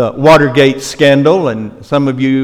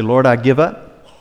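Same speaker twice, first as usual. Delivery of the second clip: model prayer; 2 semitones lower, 5 dB quieter than usual. Pretend. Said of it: "and say".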